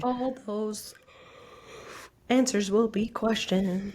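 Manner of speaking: slow, hushed mock-dramatic echo; mock-ominous. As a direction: tease it like a spooky trailer line. Playfully echoes host's slip as ominous teaser.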